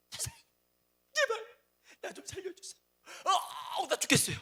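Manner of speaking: high wailing cry for help, voice breaking; desperate crying plea. Retold or imitated. Preacher acts out a dying patient begging the doctor, crying high and desperate. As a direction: beg a doctor to save you, sobbing and shrill. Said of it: "별짓 하지 않겠어요".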